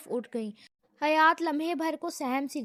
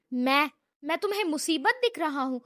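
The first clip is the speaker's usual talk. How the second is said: furious yell; 3 dB louder than usual. Acted. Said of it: "وہ طیش میں آ کے چلایا".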